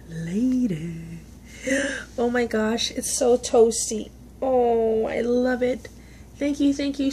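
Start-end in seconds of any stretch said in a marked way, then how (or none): 0.1-1.2 low, drawn lady; mock deep lady; low put-on voice. Real, not acted. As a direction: drop into a deep silly voice. Second take, low voice.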